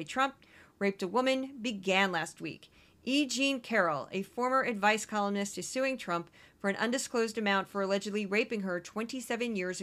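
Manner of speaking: measured, even newsreader delivery; news read. Real, not acted. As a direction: read the stories out like a news bulletin. Reads out the week's news stories.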